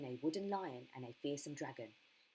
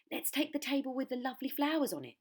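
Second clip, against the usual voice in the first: put-on child voice; 9 semitones higher, 6 dB louder than usual. A narrator's reading. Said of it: "said another".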